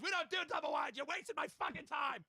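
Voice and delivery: high, strained angry yell, held-back volume; mock screaming. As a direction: imitate a salesman blowing up at a customer.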